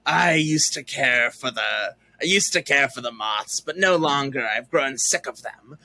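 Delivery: a hint of a jaded old crow; lightly voiced cool old crow. Mom playing a cool old crow, only lightly voiced. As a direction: mom voicing her crow character, lightly played and weary. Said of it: "like, crow old".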